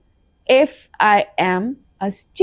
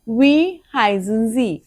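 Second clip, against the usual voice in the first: slow repeat; slower than usual. Shown as a demonstration. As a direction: echo it back for them to copy.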